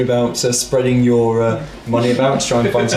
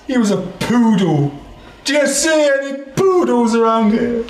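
high NPC voice; 9 semitones higher than usual. Acted.

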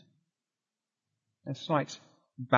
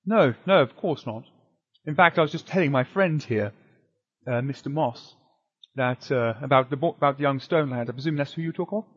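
shopkeeper voice; 4 dB louder than usual. Acted.

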